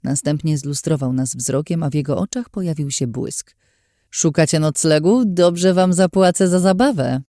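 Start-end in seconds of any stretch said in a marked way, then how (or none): 4.1-7.2 sleazy, slightly louder offer; a lecherous man sizing them up; oily proposition; leering stranger. Acted.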